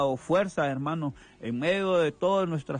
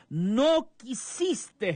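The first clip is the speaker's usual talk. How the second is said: slow, higher, drawn-out lament; a lamenting exclamation, slow and high; exclaimed lament; 8 semitones higher, much slower than usual. Retold or imitated. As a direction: cry out the rejected love. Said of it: "en signo de admiración".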